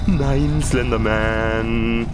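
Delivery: high, slow horrified cry; startled panic. Real, not acted. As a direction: shriek at the sudden monster. Slenderman suddenly in front. (erschrockener Schrei)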